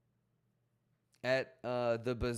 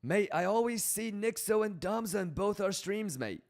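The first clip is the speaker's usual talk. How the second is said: British accent, higher and pushed harder; hammed-up British accent, pitched up; stronger British accent; 6 semitones higher than usual. Shown as a demonstration. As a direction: go a little bit more British. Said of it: "I gotta go a little bit more British".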